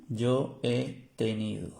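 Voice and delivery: "yo he tenido" drawn out slowly, evenly; slow careful demo. Shown as a demonstration. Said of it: "Esto es en español". ("yo he tenido" despacio, con cuidado)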